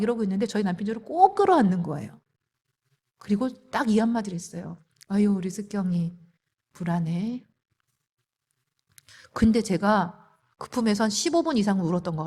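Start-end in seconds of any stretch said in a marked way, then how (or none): 5.1-7.5 tender soothing. Retold or imitated. Husband soothing her while hugging.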